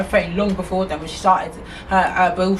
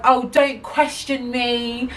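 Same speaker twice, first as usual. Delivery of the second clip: slow, measured mock scolding; aggressive retort; slower than usual. Shop worker warning a questioning customer, mildly aggressive. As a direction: imitate a rude worker laying down the law. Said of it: "She started getting aggressive towards me".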